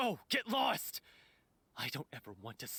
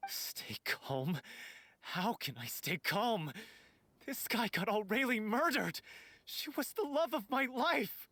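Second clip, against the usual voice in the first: worked-up indignation. Acted. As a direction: refuse to calm down, accusing. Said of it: "He's worked up".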